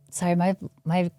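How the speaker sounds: jaw quivering, freezing cold; shivering from cold. Real, not acted. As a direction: talk through chattering teeth. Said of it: "jaw is quivering 'cause I'm freezing".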